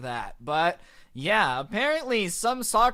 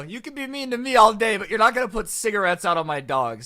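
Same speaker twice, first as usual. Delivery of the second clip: retold angry outburst, loud and high at first; mock losing your temper, pushing hard; 4 semitones higher, 5 dB louder than usual. Friend tells off stepdad over his burnt dog, retold angrily. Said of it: "my friend basically loses it".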